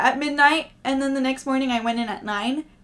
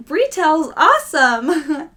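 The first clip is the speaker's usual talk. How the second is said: sarcastic; 4 semitones higher, 6 dB louder, much slower than usual. Acted. Sarcastic sign-off about retail.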